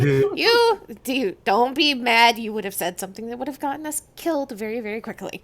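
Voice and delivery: high and loud, laughing through it; laughing plea. Acted. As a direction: plead while cracking up. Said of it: "Tori's just like".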